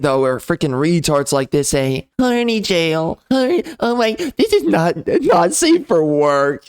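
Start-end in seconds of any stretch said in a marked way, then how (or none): 2.2-6.6 mock scold. Mocking an online commenter's outrage.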